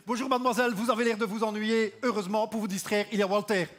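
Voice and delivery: put-on chat-up line in a Belgian accent; Belgian-accented clumsy suitor. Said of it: "on n'a pas l'accent le plus sexy".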